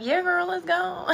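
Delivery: high, slow, overly eager yes; mock excitement. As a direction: fake enthusiasm to please mom. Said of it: "But I was like".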